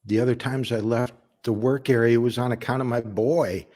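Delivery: defensive plea from a worker, lightly acted; earnest family man explaining himself. Worker explains to Darla why he left work, earnest and defensive. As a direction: justify yourself to the boss, with pauses between thoughts. Audition monologue, pleading to boss Darla.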